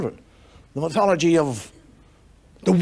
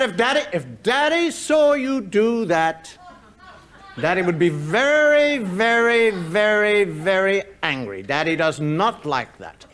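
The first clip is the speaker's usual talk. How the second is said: mother threatening; 3 semitones lower, slower than usual. Retold or imitated. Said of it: "She would say".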